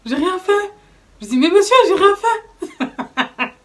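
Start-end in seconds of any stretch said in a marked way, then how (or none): 0.0-0.7 higher, slow, whimpering mock sob; imitating her crying. Retelling her tears in the police car, higher whimper. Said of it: "en train de pleurer dans la voiture". 1.4-3.5 higher, very slow whine breaking into a laugh; mock crying plea. Pleading with the police officer, mock tearful whine. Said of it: "en train de pleurer dans la voiture".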